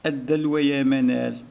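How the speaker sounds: teacher modelling a request sentence; slow request. Shown as a demonstration. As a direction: read it slowly as a request. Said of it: "هنا طلب".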